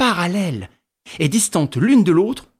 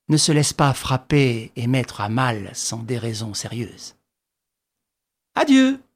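mocking farewell. Lupin mocking Ganimard.

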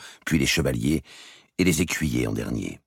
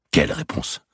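whispered feint. Acted. Robert feigning ignorance.

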